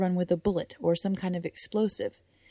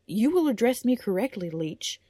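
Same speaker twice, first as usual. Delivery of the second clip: louder, measured stern correction; stern rebuke; 4 semitones higher, 4 dB louder than usual. Acted. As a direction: put the page in his place.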